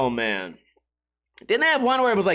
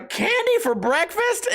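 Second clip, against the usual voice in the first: put-on much higher, slow, delighted kid asking; excited kid; 12 semitones higher, slower than usual. Happy kid in his skit asking mom, high delighted voice. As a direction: gasp it like a thrilled little kid. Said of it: "where they go".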